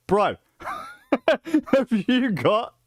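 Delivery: high, slow, laughing eager ask; laughing, high-pitched ask to the shop; excited, laughing phone call. Retold or imitated. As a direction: beg the shop for a Dreamcast, grinning. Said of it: "Call up the same store".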